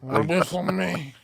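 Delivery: choked Jabba-like mock voice; Jabba the Hutt voice. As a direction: throw the neck back and gurgle. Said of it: "throw your neck back like you're Jabba the Hutt".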